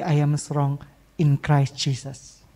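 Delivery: slow, low scripture recitation; slow solemn quote. Shown as a demonstration. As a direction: savor each word of the verse. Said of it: "Let the weak say". (kutipan ayat yang pelan dan khidmat)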